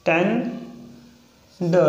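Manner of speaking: टेंडर drawn out very slowly, each sound clear; slow demo of टेंडर. Shown as a demonstration. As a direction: stretch out टेंडर syllable by syllable. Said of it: "next example है टेंडर".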